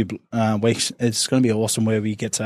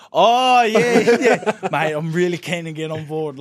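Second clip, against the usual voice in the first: eager reply; 5 semitones higher, slower than usual. Retold or imitated. Retelling his reply to coach Webby, high overeager gush. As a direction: gush at the new coach, too keen.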